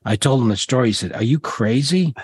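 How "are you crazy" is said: slow, higher incredulous father; shocked father. Retold or imitated. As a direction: retell the father's disbelief, drawn out. Father reacting to job story.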